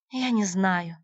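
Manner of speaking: ordinary delivery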